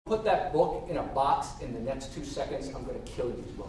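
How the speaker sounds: low, quiet deadpan threat; mock threat look. Girlfriend warns him to box that book, understated threat. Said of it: "she gave me this look".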